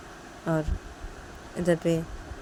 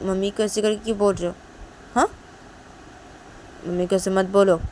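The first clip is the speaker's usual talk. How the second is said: quick reproachful scolding; 3 semitones higher, 5 dB louder, faster than usual. Acted. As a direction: tell her off, fast. Shanaya scolds Tisha.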